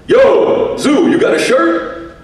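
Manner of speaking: high, slow shouted call; fan calling out. Retold or imitated. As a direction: yell across the room at the DJ. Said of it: "they'd go".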